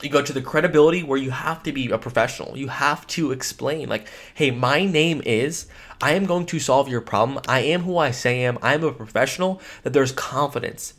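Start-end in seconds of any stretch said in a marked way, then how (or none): 4.3-9.6 confident expert. Shown as a demonstration. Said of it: "You can hear that behind my voice".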